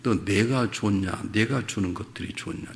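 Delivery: slow, soft, searching question; voice of God. Retold or imitated. God quietly asking the pastor what he truly loves, slow. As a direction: let each word land gently and slowly. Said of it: "하나님이 저에게 이렇게 물으셨어요".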